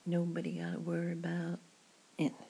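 "nobody gotta worry about anything" in a light American accent. Shown as a demonstration. Reassuring a friend in the pub, American accent. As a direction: try on a casual American accent. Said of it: "American accent".

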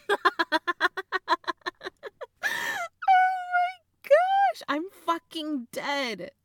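loud, high-pitched cracking up; dying laughing at a sibling; helpless laughter. Acted. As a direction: squeal the words through big laughter. Sister cracks up at brother.

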